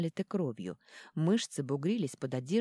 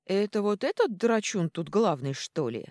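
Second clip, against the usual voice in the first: louder, higher dwarf voice; gruff dwarf warrior; 4 semitones higher, 6 dB louder than usual. Acted. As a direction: ask it bluntly. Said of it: "уточнило новое действующее лицо".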